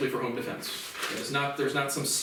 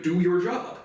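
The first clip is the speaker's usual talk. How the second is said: firm commanding "Do your job", a bit louder; authoritative; 3 semitones higher, 4 dB louder, slower than usual. Shown as a demonstration. Telling the FBI on the phone, authoritative command. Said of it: "in, like, an authoritative".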